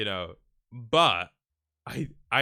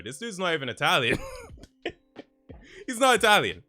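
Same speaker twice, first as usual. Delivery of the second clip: ordinary delivery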